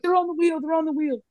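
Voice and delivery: high, anxious squeak of compliance; mock panicked protest. Driver answering the trooper with the shotgun, retold panic. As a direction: plead it high, twice over.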